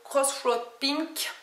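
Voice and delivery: Crossroad Pink in a playful put-on English accent, slow; mock English accent. Shown as a demonstration. Naming the blush for viewers in a mock English accent. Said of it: "avec mon accent anglais".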